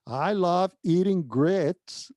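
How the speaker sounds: slow Alabama drawl, every word stretched; Southern twang. Retold or imitated. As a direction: playfully imitate a Southerner from Mobile, very slowly. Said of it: "é o Southern twang". (imitação arrastada do sotaque sulista)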